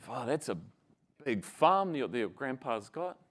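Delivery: a hint of a meek, awed boy; little Kiwi boy. Kiwi boy hearing about grandpa's farm, soft meek awe. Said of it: "the little Kiwi boy goes".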